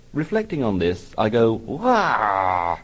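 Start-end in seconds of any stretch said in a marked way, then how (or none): 1.5-2.8 put-on contained childish wail, at usual pitch; held-in mock "wah"; inward wail. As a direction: wail to yourself like a small child.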